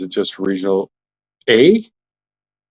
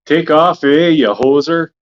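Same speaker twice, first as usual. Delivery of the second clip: Canadian stereotype; 4 semitones higher, 3 dB louder, slower than usual. Retold or imitated. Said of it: "they think Canadians".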